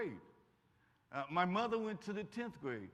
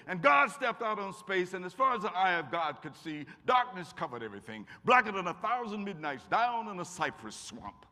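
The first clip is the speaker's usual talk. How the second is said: poem recitation; 2 semitones higher, 7 dB louder than usual. Shown as a demonstration. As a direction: declaim it like a schoolchild reciting for church. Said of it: "they make you stand up and say".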